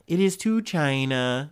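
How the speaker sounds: slow Trump-style "China", drawn out like Trump; Trump accent. Retold or imitated. Host mocks Trump's "China" in a light Trump accent. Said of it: "use my best Trump accent for that".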